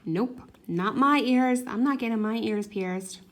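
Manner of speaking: firm refusal, punched at the start; adamant refusal. Retold or imitated. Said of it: "her sister is adamant of".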